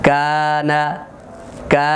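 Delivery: কানা with কা drawn out on a level note; measured recitation demo of the long vowel; one-alif stretch. Shown as a demonstration. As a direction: hold the thin 'aa' for a full beat. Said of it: "উচ্চারণটা কিভাবে করব".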